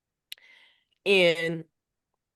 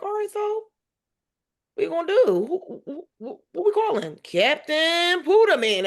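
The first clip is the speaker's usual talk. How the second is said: higher, louder, stretching out the name at the end; excited build-up; 10 semitones higher, 4 dB louder than usual. Retold or imitated. Mom summoning Captain Pooterman for her son, grand and slow. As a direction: announce the hero slowly and grandly.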